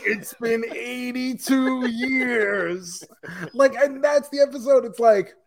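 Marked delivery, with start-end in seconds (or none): 0.1-3.0 put-on slow old man voice. Riffing on waiting old man.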